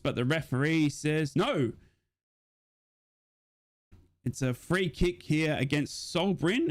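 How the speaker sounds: steady fan commentary call of the match; play-by-play commentary. Acted. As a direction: call the action like a stream commentator.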